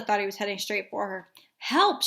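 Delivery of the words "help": high, loud mock cry for help; girl on swing panicking at a dog; scream. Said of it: "she screamed".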